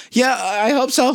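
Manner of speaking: nervous laughing reply. Retold or imitated. Man recalling his uneasy reply to a calming crowd, slow with a laugh. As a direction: answer nervously. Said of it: "I'm like".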